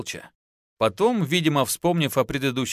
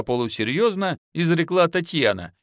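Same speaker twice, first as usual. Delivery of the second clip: ordinary delivery, nothing marked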